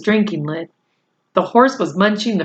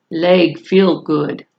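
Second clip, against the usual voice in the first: Little Bear voice; 2 semitones lower, slower than usual. Acted. Little Bear speaks, broken English.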